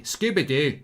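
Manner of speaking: Scooby-Doo with a fronted Scottish oo, quick and falling; Scottish accent. Shown as a demonstration. Viewer asks for Scooby-Doo in Scottish, he obliges in a light Scottish accent. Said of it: "Say Scooby-Doo in Scottish accent".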